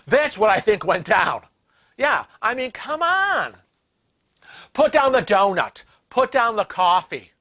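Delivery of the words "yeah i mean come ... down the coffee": 1 scolding. Real, not acted. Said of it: "scolding the imagined clerk".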